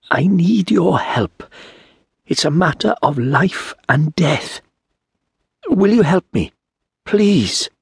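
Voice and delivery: high, slow, strained plea of a hooded stranger; pleading stranger. Acted. Hooded stranger begging Turi for help, high and pleading.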